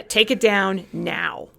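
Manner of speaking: dictating an order, slowly; slow stern command. Retold or imitated. Kristen demanding the flyer come down, slow stern command. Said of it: "an angry phone call from Kristen".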